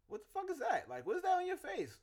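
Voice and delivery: high, loud blurted outburst. Retold or imitated. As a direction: blurt it out with no filter. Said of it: "external processing, like".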